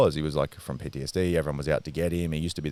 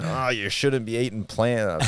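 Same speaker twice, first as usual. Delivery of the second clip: high, drawn-out mock nan voice; scolding nan; 5 semitones higher, slower than usual. Grandson mimics nan scolding him for eating plant, mock scolding. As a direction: imitate a disapproving nan, stretched out and higher.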